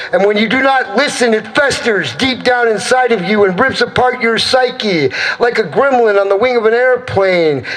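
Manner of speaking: insistent, rhythmic spoken-word declaiming; emphatic, incantatory poem delivery; impassioned slam poetry. Acted. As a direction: declaim it like a poet driving the message home.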